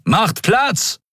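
a high, urgent call in another voice. A narrator's reading. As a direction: clear the way, calling out. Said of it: "rief jemand in der Nähe".

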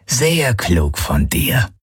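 slow alien growl, pitched a little up. A narrator's reading. Alien guard praising the captive Galen, slow growl. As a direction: drag the words out like a grumbling brute. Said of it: "brummte Knochenfresse".

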